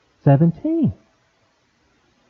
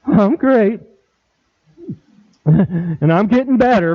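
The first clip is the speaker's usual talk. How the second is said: half-hearted, deflated reply; mock listless answer with a laugh; without enthusiasm; 4 semitones higher than usual. Shown as a demonstration. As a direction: say it like you don't believe it.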